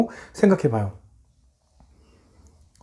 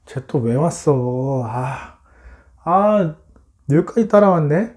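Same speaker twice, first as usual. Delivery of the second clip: acted weary irritation with sighed "아"; annoyed; 3 semitones lower, slower than usual. Brothers spotting Joseph coming, annoyed grumbling. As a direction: grumble it, mostly low and subdued. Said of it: "또 짜증이 나는 거예요".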